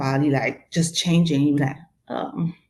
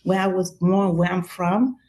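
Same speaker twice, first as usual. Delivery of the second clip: higher-pitched, incredulous retort; mock exasperation; 4 semitones higher than usual. Speaker retorts to people guessing her accent, mock exasperated. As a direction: play up mild exasperation at being misheard.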